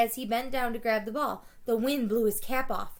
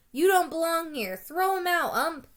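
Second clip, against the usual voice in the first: higher, louder mean jeers; harsh heckling; 6 semitones higher, 4 dB louder than usual. A narrator's reading. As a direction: jeer at the batter like a nasty grown-up fan. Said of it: "Their voices had grown harsh and mean".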